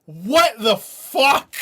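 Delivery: slow, high, loud question; real stunned outcry; disbelief. Real, not acted. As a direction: stretch it out, baffled. Reacting to surprise verse.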